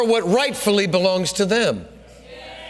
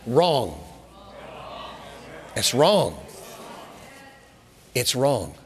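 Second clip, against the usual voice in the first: low, soft condemnation; solemn wrong; 9 semitones lower, 6 dB quieter, slower than usual. Real, not acted. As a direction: drop the voice low and heavy. Preacher condemns fraud solemnly.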